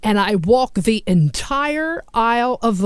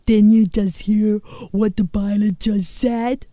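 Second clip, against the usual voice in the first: put-on young woman passenger. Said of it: "And she says".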